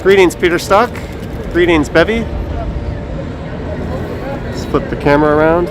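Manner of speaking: muffled behind a face mask; talking through a cloth mask. Real, not acted. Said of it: "I am wearing a mask right now".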